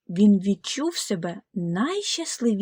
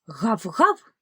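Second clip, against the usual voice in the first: dog bark. Acted. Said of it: "відповів собака".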